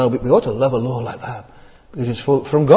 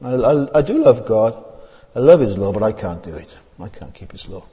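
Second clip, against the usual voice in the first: resigned confession; 3 semitones lower, 3 dB quieter than usual. Retold or imitated. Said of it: "our attitude tonight would say".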